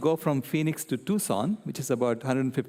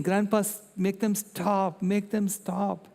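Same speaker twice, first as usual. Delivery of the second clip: higher, slow, mock weeping child; imitated crying plea; 5 semitones higher, slower than usual. Granddaughter pleading with grandpa, in a mock crying child voice. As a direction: beg through imitated tears. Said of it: "She was now crying".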